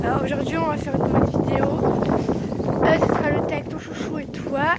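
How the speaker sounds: recorded outdoors in the wind; wind on mic. Real, not acted. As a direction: wind noise over the voice. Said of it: "désolé pour le vent".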